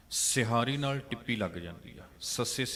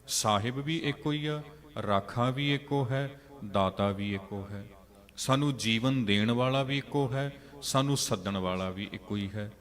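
fervent preaching; 4 dB louder than usual. Acted. Preacher urges congregation, louder.

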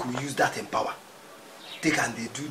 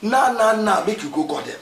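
urgent hurry; 7 semitones higher, 6 dB louder than usual. Acted. Urgent back-and-forth about fetching people.

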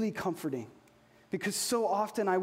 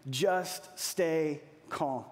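calm reassurance; 5 semitones lower, much slower than usual. Retold or imitated. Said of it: "Moses told the people".

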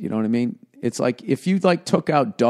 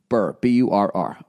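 talking through hiccups; hiccuping between words; 3 semitones lower than usual. Real, not acted. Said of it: "I have the hiccups now".

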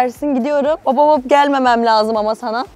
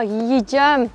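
usual speaking voice

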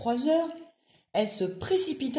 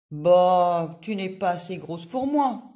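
scornful dismissal; 7 dB louder, slower than usual. Acted. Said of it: "lança-t-elle".

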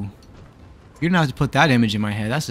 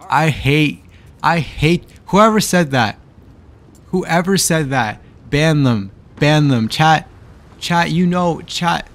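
angry outburst; 2 semitones higher, 5 dB louder, slower than usual. Real, not acted. Streamer yelling at chat to ban the troll. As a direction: lash out at whoever typed it.

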